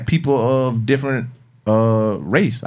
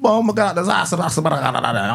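lightly mock Jamaican, higher at the start; a hint of Jamaican patter, pitched up; Jamaican accent; 6 semitones higher than usual. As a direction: coworkers at lunch with other Jamaicans, a hint of Jamaican. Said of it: "sit down with them other Jamaicans".

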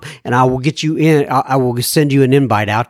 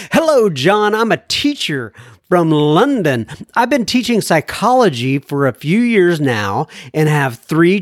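letter read-out; 3 semitones higher than usual. Acted. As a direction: read the listener's letter in measured, singsong phrases. Reads listener's letter.

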